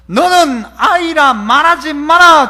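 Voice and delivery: slow, firm commanding voice; slow, weighty divine command; God's command. Retold or imitated. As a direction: lay down the Lord's word. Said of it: "주님 그렇게 말씀하시죠".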